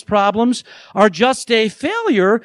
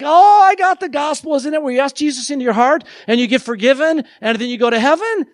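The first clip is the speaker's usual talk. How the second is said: mock shallow believer; 4 semitones higher than usual. Mocking shallow gospel view.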